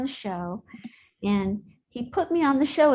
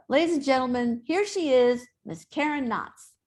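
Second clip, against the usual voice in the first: stage introduction; 3 semitones higher than usual. Retold or imitated. Dad introducing his daughter on his variety show, announcer style. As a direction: present an act to the audience. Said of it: "the way he introduced me".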